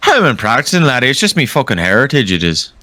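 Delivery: put-on light Irish accent. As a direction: lightly play an Irish bloke. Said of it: "talk in an Irish accent".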